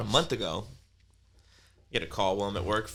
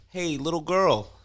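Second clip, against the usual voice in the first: slow, higher creepy call; creepy neighbor; 8 semitones higher, 5 dB louder, slower than usual. Retold or imitated. Creepy neighbor calling to daughter from balcony, slow and creepy. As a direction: drag it out like a creep. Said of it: "and he's like".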